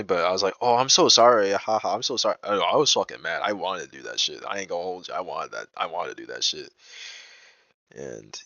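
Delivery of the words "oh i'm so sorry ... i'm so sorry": fake apology. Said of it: "I just wanna do it intentionally".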